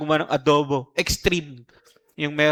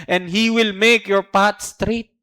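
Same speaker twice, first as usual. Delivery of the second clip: slow reading; 3 semitones higher, 3 dB louder, slower than usual. Shown as a demonstration. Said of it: "verse reading slow".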